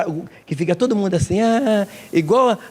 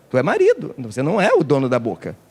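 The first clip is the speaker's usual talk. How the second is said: ordinary talk, nothing marked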